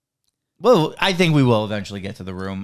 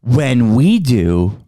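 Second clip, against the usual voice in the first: slow, louder smooth TV host; sexy host voice; 4 dB louder, slower than usual. Pretend. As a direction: croon it like a dating-show host. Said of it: "I like your sexy host voice you're doing right now".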